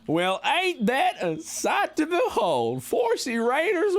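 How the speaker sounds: high, drawn-out Wild West greeting; Wild West accent. Pretend. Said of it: "This is just the accent I'm doing".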